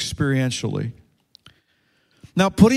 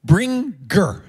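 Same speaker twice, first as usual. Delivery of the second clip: bringer with a Portuguese accent, said higher; 4 semitones higher than usual. Shown as a demonstration. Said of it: "Say it in English".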